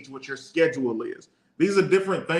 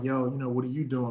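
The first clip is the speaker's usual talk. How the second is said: a touch softer, smooth ladies' man voice; 2 semitones lower, 4 dB quieter than usual. Retold or imitated. Chatting a girl up on the phone, mild smooth come-on voice. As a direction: lightly put on the smooth mack voice. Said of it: "I'm talking to her in that voice".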